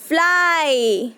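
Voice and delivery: slow, drawn-out फ्लाई with a long ai; slow demo word. Shown as a demonstration. Teacher sounds out a word for children, slow and drawn out. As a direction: stretch फ्लाई out so kids catch the ai. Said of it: "last में आपका आता है आई".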